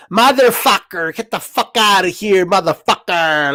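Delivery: Tony Montana impression. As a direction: drag out motherfucker like a movie mobster. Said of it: "turned into Tony Montana".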